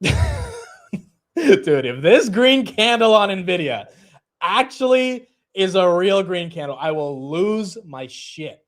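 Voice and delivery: high, loud, drawn-out excitement; excited disbelief. Real, not acted. Trader seeing a green candle after his sip, excited disbelief. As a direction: blurt it high and stretch the key words.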